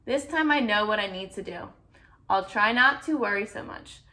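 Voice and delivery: put-on lively read-aloud to a child; storybook reading voice; story narration. A narrator's reading. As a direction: read it like a bedtime picture book. Reading picture book aloud.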